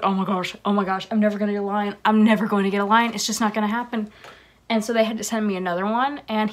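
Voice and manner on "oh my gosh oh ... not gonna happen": retold panic. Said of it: "I was like".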